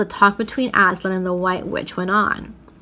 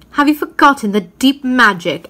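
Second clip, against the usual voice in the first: sharp, louder accusing question; witch's challenge; 4 semitones higher, 5 dB louder than usual. Acted. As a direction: demand it of the lion coldly. Witch confronting Aslan.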